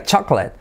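"chocolate" in two syllables, "CHAK-let"; short "CHAK-let"; native pronunciation. Shown as a demonstration. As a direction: say "chocolate" like "chaqueta" plus "Leticia".

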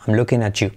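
"at you" as "achu" within the phrase; T+Y merged. Shown as a demonstration. Teacher showing the blend in a sentence, "at you" as "achu". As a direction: link "at you" with a "ch" sound. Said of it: "se convierte en".

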